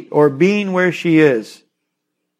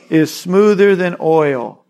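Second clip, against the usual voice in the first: slowed down on smoother than oil; slow stress; 3 dB louder, slower than usual. Shown as a demonstration. Preacher slowing to stress the verse to listeners.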